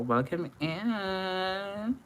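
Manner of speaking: high, slow stretched welcome in; singsong welcome. Acted. To Olajo, greeting her again, a high slow singsong welcome. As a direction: sing the welcome out.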